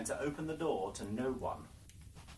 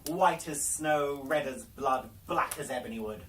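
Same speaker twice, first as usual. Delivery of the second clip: gloating Queen; 6 dB louder than usual. Acted. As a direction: savour the victory over the body. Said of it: "laughed aloud".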